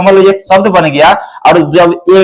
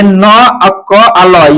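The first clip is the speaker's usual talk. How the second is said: each letter said slowly and apart; slow letter spelling; much slower than usual. Shown as a demonstration. Teacher spelling the word for pupils, slow and deliberate. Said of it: "व्यंजन है".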